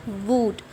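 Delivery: वुड with a short "oo"; short rounded vowel in वुड; correct reading of wood. Shown as a demonstration. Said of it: "क्या पढ़ा जाएगा इसे".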